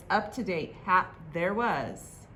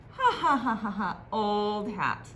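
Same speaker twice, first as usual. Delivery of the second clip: taunting. Acted. Others taunting Herbert.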